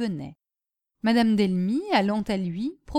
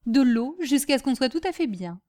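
higher-pitched, sardonic advice; mocking; 4 semitones higher than usual. Master recommending water for fainting to servant, mocking. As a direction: lecture her with mock politeness. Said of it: "avec un rire moqueur".

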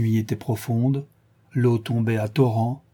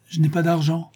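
mild fearful plea, pitched higher; understated frightened woman, in a higher voice; trembling fear; 6 semitones higher than usual. A narrator's reading. Frightened woman tells her attacker she has no money, mildly trembling. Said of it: "répondit la femme en tremblant".

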